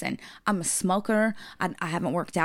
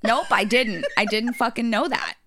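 flustered denial; 3 semitones higher, 4 dB louder than usual. Retold or imitated. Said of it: "And I said".

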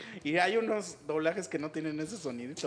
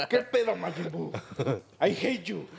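Goku English dub impression, laughing; 4 dB louder than usual. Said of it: "Goku habla así de".

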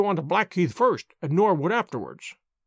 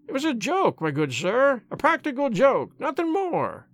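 high, pleading whine; whining; 6 semitones higher than usual. A narrator's reading. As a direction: whine it out, begging to be believed. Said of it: "he whined incessantly".

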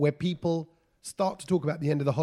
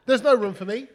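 whiny passenger; 6 semitones higher, 6 dB louder than usual. Retold or imitated. Mocking the passenger's whine.

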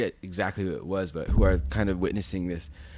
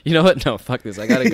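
loud, high burst, breaking into laughter; retold fed-up outburst; 6 semitones higher, 11 dB louder than usual. Introvert deciding to cut the customs line, fed-up outburst. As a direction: build to a high, loud resolve.

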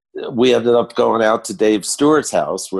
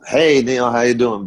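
a singer's voice; 5 semitones higher than usual. Retold or imitated. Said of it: "And then he comes in".

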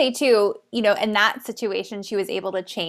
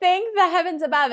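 mock thankful sarcasm; 9 semitones higher than usual.

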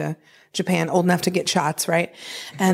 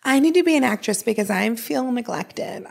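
put-on neglected child; 5 semitones higher than usual. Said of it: "was like".

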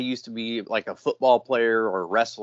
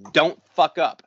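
retold stern order; 4 semitones higher, 4 dB louder than usual. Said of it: "the old guy yelling at the young buck".

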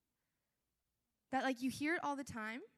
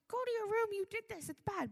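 higher-pitched telling-off; mock scolding; 8 semitones higher than usual. Parent sends a child to the room, mock-stern. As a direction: scold like a cross parent, hammed up.

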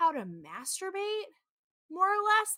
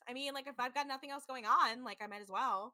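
unenthusiastic yes; 3 semitones higher than usual. Retold or imitated. Imagining someone agreeing to sleep together, unenthusiastic. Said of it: "That's not an enthusiastic yes".

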